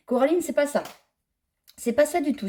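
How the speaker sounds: high, reproachful emphasis. Real, not acted. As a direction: scold the designer firmly. Addressing the designer directly. (ton de reproche)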